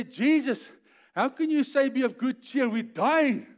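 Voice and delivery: loud, high-pitched mock alarm; panicked protest. Disciples to Jesus in the wild storm, panicked protest. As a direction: cry out as a desperate disciple.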